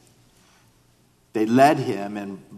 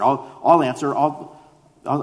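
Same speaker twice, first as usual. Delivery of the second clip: higher, eager volunteering with stumbling repeats; eager quick answer; 4 semitones higher, 4 dB louder than usual. Acted. Peter rushing to answer before other disciples, eager. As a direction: jump in first, pitched up. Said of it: "give such a quick answer".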